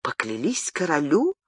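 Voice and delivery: a soft, surprised echo; echoed question. Acted. Diana repeats Gabriel's words back, softly surprised. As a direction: repeat it back, half unbelieving. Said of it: "переспросила Диана".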